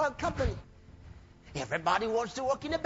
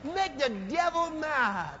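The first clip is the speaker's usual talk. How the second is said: preaching shout; 4 semitones higher than usual. Real, not acted. Preacher exhorting congregation.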